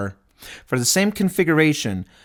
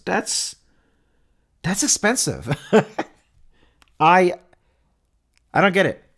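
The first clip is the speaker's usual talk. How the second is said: a real laugh over the price; laughing in disbelief; 5 semitones higher than usual. Real, not acted. Host laughing at the price gap, baffled and amused.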